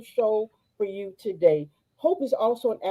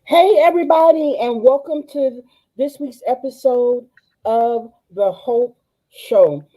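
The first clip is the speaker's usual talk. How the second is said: excited host greeting; 6 dB louder than usual. Real, not acted. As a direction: welcome them in with big energy. Enthusiastic show opening.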